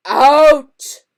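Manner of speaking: huge loud roar. A narrator's reading. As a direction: bellow it. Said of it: "roared Uncle Vernon".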